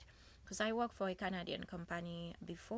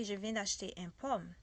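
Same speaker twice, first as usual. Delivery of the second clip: wrong French. Shown as a demonstration. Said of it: "That's a very bad French".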